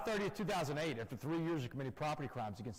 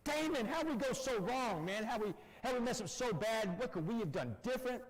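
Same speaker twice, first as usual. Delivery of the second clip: crying father; 8 semitones higher than usual. Retold or imitated. Father crying to his jailed son on the phone, high anguished plea. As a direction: retell a broken father's tearful cry. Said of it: "he is screaming and crying on the phone".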